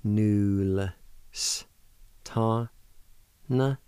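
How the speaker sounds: "Nul" with L joined on, then "s", "ta", "na" apart; sounded-out pronunciation. Shown as a demonstration. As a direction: isolate each sound of "Nul s ta na". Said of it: "pronounce the L sound with the N U like this".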